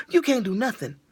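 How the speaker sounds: a laughing first try at the rule, soft; laughing at herself. Shown as a demonstration. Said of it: "That's what I had to break it down".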